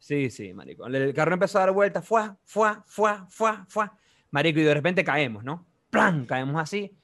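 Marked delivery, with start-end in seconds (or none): 2.1-4.0 higher-pitched repeated "fuá" whooshes; imitated car flips. Telling how the car rolled over, imitated whoosh for each flip. 5.9-6.2 higher, punched "plan!" impact; imitated crash landing. Telling how the car suddenly fell, imitated crash bang.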